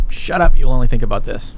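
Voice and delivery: loud, snapping quote; dismissive shout. Retold or imitated. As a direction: bark it like a dismissive boss.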